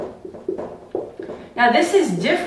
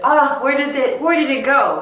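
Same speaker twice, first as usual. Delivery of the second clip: scared emoji; 6 semitones higher than usual. Pretend. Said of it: "my scared little emoji said".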